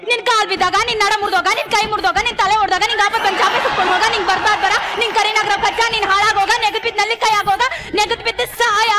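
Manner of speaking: curse demo. Shown as a demonstration. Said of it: "ಬೈಯೋದ್ ಹಿಂಗಲ್ಲ ರೀ".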